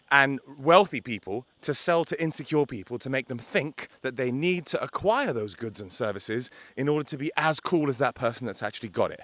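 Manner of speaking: normal talking voice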